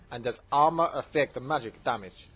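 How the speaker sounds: lightly imitated Saudi accent. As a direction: ask it like an imitated Saudi fan. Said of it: "from Saudi Arabia".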